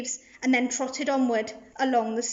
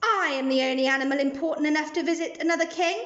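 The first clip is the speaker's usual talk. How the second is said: disdainful lion; 2 semitones higher than usual. Acted. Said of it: "The lion roared with great disdain".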